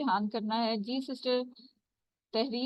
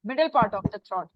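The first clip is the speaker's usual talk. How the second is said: slow explanation; 3 semitones lower, 3 dB louder, much slower than usual. Shown as a demonstration.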